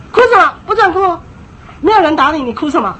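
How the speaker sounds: loud, high stern shout; fierce scolding. Retold or imitated. Parent overpowering a tantrum, loud stern shout. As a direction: come down hard on the crying kid. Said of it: "你那时候只有更凶的给他压下去".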